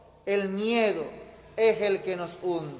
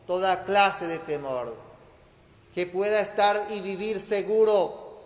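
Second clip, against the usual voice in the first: prayer. Real, not acted. Closing prayer. (oración sentida y serena)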